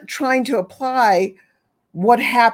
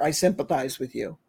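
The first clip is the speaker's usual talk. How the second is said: softer, lower sympathizing voice; a hint of a self-absorbed sympathizer; lightly voiced pitying friend; mock sympathy; 5 semitones lower, 7 dB quieter than usual. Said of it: "don't sympathize either".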